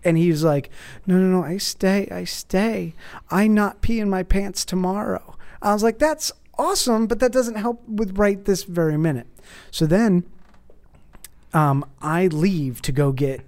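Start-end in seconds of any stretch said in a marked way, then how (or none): 1.1-5.4 mock kid pleading. Kid refusing in retold story. 6.0-9.3 mock exasperated. Dad reacting to son.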